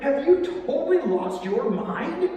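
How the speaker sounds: loud, high and slow disbelief; incredulous outburst. Acted. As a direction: challenge him as if he were crazy. Roman confronting the shouting Jew.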